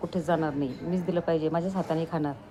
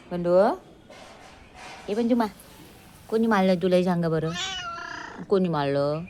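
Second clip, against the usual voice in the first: louder teasing call to the dog; 4 dB louder than usual. Real, not acted. Owner loudly calling her dog to ask who hit him.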